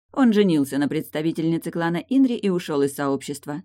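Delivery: ordinary delivery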